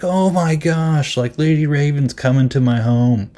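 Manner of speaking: mock squeal at the big news; hammed-up teen freaking out over a star visit; imitating a freak-out. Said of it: "freaking out".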